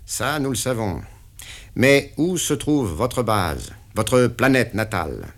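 the boss pinning down the deal; interrogating patron; stern boss. Acted. Patron questions.

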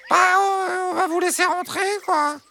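hesitant, uneasy hen. Acted. Hen reluctantly lets the fox in, uneasy. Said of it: "d'une voix peu rassurée".

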